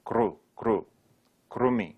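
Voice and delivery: kru and krumi with an "oo" after r; r vowel as ru. Shown as a demonstration. Teacher illustrating how many people say it, ru in krumi. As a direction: say krumi as "kroo-mee". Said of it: "pronounce it as ru".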